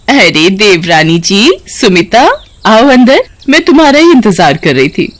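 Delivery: chachi voice. Acted. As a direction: greet her like a fussy aunt at the door. चाची welcomes her sister-in-law. (हल्के से चाची की आवाज़, मीठा स्वागत)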